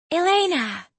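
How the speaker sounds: high, loud call across the room; yelling a name. Acted. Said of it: "Sammy yelled my name".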